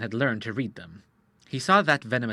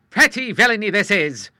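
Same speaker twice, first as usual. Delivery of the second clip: louder, outraged sea captain; indignant; 7 semitones higher, 9 dB louder than usual. A narrator's reading. The Admiral finding the fake doctor, a mild indignant cry. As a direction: call out the fraud. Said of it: "cried the Admiral".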